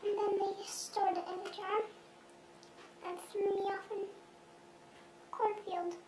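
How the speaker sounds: altered anonymous voice; disguised deep voice. Acted. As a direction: voice disguised to hide identity. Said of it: "his voice has been altered".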